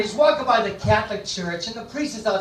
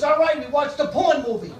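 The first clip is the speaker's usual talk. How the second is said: put-on higher, mildly exasperated kid's confession; a hint of a boy giving in; lightly voiced son; 6 semitones higher than usual. Son confesses to father after slap, lightly voiced.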